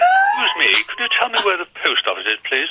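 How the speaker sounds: put-on careful perfect-English accent, pitched high. Learner asking a Liverpool local for directions, perfect English accent. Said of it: "like learning perfect English".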